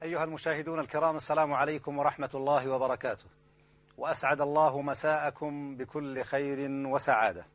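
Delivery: fast formal news greeting; formal standard arabic. Acted. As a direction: open like a TV anchor. Presenter opens the show. (فصحى رسمية كمذيع)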